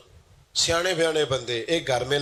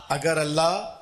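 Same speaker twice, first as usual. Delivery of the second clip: defiant declamation; 8 semitones higher, slower than usual. Retold or imitated. Blinded believer answering her taunters, ringing defiant declaration. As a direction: proclaim each phrase higher, with pauses between.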